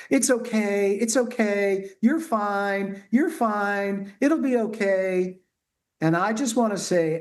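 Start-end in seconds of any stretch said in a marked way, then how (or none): 0.1-5.4 put-on higher, sing-song hushing of a crying baby; mock soothing. Parent to crying toddler, mock soothing dismissal. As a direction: brush off the tears with a higher cooing. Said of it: "everyone wants to say to the baby".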